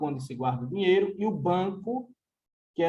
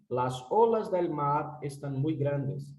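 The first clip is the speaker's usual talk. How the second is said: slow example; 3 semitones lower, 3 dB quieter, slower than usual. Shown as a demonstration. Teacher reading Spanish example.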